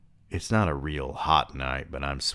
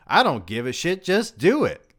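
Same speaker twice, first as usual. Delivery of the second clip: higher and louder, fed up; irritated manager yelling; exasperated coach shouting; 13 semitones higher, 6 dB louder than usual. Acted. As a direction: bark the order and end it. Coach snaps at player.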